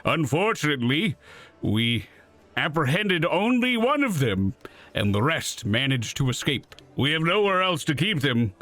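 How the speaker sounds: lightly voiced stern paladin. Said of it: "my paladin voice".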